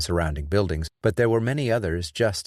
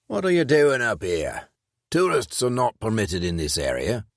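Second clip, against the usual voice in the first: stern policeman; 4 semitones higher than usual. A narrator's reading. Policeman challenges them.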